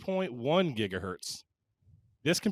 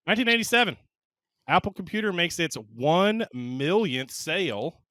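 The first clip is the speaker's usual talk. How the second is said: announcing like a Western cowboy; 2 semitones higher than usual. Real, not acted. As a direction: slip into a cowboy twang. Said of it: "I don't know why I sounded like a cowboy there".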